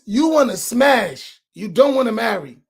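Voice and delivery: Imam Naeem. Retold or imitated. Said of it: "in my Imam Naeem voice".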